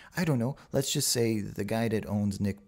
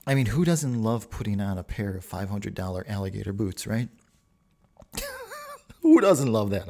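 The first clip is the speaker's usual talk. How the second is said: pompous; 4 dB louder than usual. Pretend. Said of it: "I said that like a real pompous asshole".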